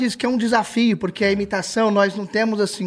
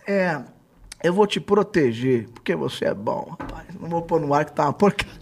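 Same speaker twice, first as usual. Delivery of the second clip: protective reassurance; 4 semitones lower than usual. Retold or imitated. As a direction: retell a kindly boss breaking bad news. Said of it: "eu achei bonito que ele falou".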